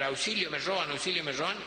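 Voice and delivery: a hint of a robotic alarm yelling for help; car alarm recording. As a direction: imitate a recorded alarm calling auxilio. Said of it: "una grabación que empieza a gritar".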